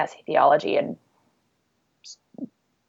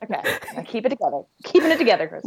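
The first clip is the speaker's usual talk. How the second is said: after crying; 5 semitones higher, much faster than usual. Real, not acted. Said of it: "I just got teary".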